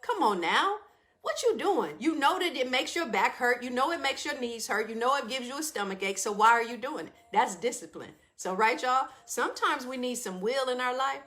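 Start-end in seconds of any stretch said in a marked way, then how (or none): 0.0-7.1 a stern, pushy drill voice; tough-love scolding. Acted. Discipline the friend scolding sis to get up, tough love. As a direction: tell her off like a no-nonsense friend. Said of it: "Discipline show up like".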